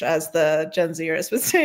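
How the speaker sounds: ordinary delivery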